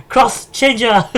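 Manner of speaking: slow, drawn-out hero transformation call; henshin shout. Pretend. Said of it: "shout out or a roll call".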